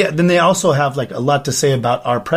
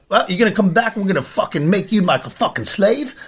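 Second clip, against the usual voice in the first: higher-pitched imitation of a Cockney girl; retold Cockney come-on, pitched up; mock Cockney; 5 semitones higher than usual. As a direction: lightly put on a Cockney accent. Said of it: "found a chick with a Cockney accent".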